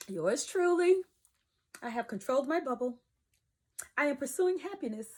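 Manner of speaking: a light polished vlogger voice; YouTube voice. Pretend. Vlogger mocking her old channel persona, lightly polished voice. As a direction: put on your announcer polish for the camera. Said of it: "That was my YouTube voice".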